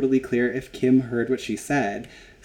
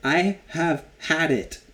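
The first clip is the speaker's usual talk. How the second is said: imitating Joy, fed up; 3 semitones higher, 3 dB louder than usual. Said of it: "Joy is like".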